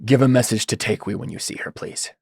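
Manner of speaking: subdued request, trailing off very softly; understated plea that sinks to a hush; Mikhail. Acted. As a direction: ask it gently as a downcast character, fading at the end. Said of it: "continues to say in Mikhail's voice".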